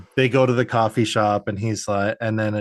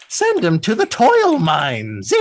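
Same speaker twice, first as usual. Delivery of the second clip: slow, higher, commanding villain sidekick; villain henchman; 7 semitones higher, 4 dB louder, slower than usual. Retold or imitated. Bird henchman sentencing the hero, slow and higher. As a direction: bark the order with mock menace. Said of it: "bird guy is like".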